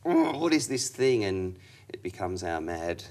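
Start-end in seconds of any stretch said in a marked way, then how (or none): 0.1-1.2 quoted puzzled exclamation; suddenly baffled, asking yourself. Retold or imitated. Acted inner voice, puzzled.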